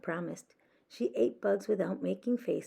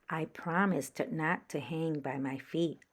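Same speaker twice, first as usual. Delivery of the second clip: sighing; 3 dB quieter than usual. Acted. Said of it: "Stella Luna sighed".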